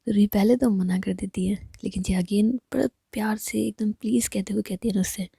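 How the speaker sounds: ordinary delivery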